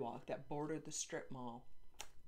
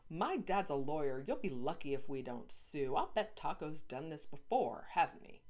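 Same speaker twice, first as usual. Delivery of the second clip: bossy scolding; 4 dB louder than usual. Acted. Girl scolds dog owner.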